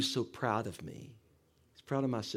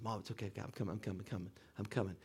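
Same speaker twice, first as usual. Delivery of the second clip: retold reassurance; 3 semitones lower, 9 dB quieter, faster than usual. Reassuring frantic mother on phone.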